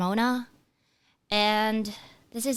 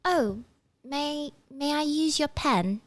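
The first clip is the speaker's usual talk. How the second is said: put-on British accent; 6 semitones higher than usual. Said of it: "she'll say something like".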